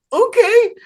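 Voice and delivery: very high-pitched retold okay; amazed agreement. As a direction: act out stunned, eager agreement. Reacting to news of dream job.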